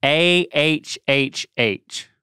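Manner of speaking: drawn-out ah with tongue out; tongue stuck out. Shown as a demonstration. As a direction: say it slow with tongue out. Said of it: "Stick out your tongue like a cat".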